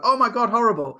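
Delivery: imitating a client squealing at spiders; mock disgust. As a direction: act out the spider fright, recoiling. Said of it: "and they go".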